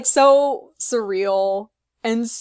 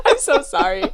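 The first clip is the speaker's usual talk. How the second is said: laughing apology. Real, not acted. Laughing apology after teasing fans.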